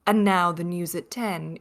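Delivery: calm, understated BBC newsreader voice; lightly voiced British news presenter. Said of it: "the sort of B B C presenter".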